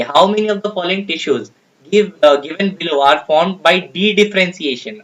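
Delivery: slow, deliberate reading of an exam question. Acted. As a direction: read each word out slowly for the class. Reads next question slowly.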